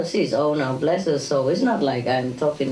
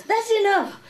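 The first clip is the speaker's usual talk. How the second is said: high mock nagging voice; imitating the resident. Teacher mimics the old resident shooing cooks away, high and fussy. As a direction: shoo people off in a high fussy voice. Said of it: "and she goes".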